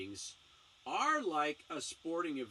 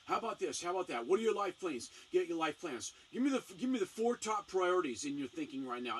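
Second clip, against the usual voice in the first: pushy rapid-fire questions, a bit louder; grilling interrogation; 3 semitones higher, 4 dB louder than usual. Retold or imitated. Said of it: "you don't grill 'em hard".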